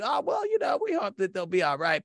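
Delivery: high, mocking imitation of a TV producer; lightly sneering producer impression. Imitating the producers' edited line, mocking.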